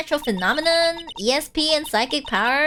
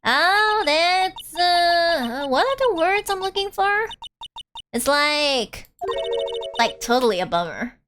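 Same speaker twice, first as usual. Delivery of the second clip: put-on Valley Girl accent. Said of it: "I get to use my Valley Girl accent".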